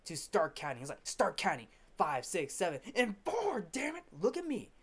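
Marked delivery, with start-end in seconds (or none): 1.0-4.7 retold angry order, pitch leaping at the end; mock fury. Fletcher orders Neiman to start counting, mock fury. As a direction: imitate a furious count-off. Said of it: "in fury tells".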